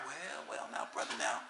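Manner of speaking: hushed conspiratorial whisper; mock whisper. Imitating a preacher suddenly whispering, hushed conspiratorial whisper. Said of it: "they start whispering for no reason".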